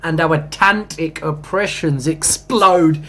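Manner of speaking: slow, lofty poetry recital; poem reading. Acted. Reading his own spiritual poem to viewers, slow and lofty. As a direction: read it like a sacred verse, drawn out.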